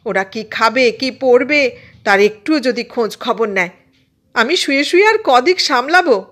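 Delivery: high-pitched scolding tirade; fed-up mother yelling orders and reproaches; angry yelling. A narrator's reading. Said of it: "আরও জোরে চেঁচিয়ে চেঁচিয়ে বলল". (রাগে চেঁচিয়ে মায়ের বকাঝকা)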